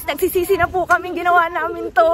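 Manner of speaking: teeth chattering from cold; shaky voice, freezing; shivering. Real, not acted. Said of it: "Nanginginig na kami sa lamig".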